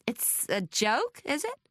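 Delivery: slow American challenge, rising high at the end; American reporter turning on someone; American accent. A narrator's reading. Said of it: "Logan Royce had an American accent".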